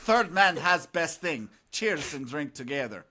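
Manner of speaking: put-on Russian joke accent. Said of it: "Russian joke".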